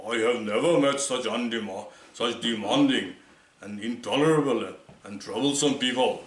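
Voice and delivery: put-on Churchill's accent. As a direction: mimic Churchill's accent, mildly. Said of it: "he said it in the Churchillian accent".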